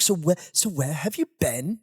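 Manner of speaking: put-on unconvincing Irish accent; attempted Irish accent. Irish travel companions asking where he'd been, botched Irish accent. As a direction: badly fake an Irish accent. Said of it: "That doesn't sound like an Eng-, Irish accent".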